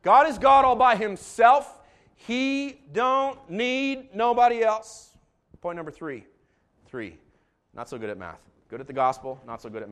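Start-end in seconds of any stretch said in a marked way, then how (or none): 0.0-5.2 slow, loud, high preacher cadence; Alabama preacher again. Shown as a demonstration. Proving to the congregation he can preach that way, slow and loud. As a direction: show them he can preach like that, drawn out. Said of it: "I can".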